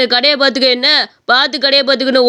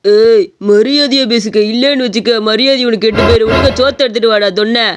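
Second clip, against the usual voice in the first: stern threat; 4 semitones lower than usual. Acted. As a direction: demand respect in a low, menacing voice. Customer threatens over lack of respect. (தாழ்ந்த குரலில் மிரட்டல்)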